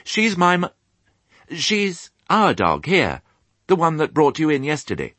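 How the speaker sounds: high, halting little-pig voice; earnest piglet. Acted. Piglet correcting himself about the dog, high and earnest. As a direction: explain carefully as a young pig.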